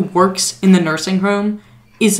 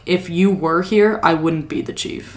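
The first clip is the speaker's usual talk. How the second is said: sad; 2 semitones lower, 5 dB quieter than usual. Retold or imitated. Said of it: "he says it almost sadly".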